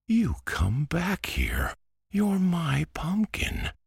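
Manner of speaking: high, calling after it; crying out. A narrator's reading. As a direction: shout after the runaway. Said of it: "cried Antoine".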